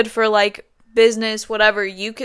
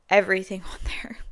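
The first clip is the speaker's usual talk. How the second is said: whispering; 5 dB quieter than usual. Real, not acted. Aside about phone dependence.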